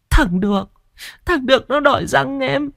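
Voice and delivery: put-on high, thin, terrified girl's voice; raving sick girl. A narrator's reading. Sao tells Hàn her brother wants her teeth, high and frightened. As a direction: plead in a high haunted wail.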